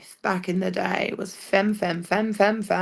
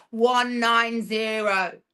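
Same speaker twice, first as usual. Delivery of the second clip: each number set apart, slow; One nine zero, each figure said slowly; spelling out the number; 4 semitones higher, much slower than usual. Shown as a demonstration. Spells out the verse count.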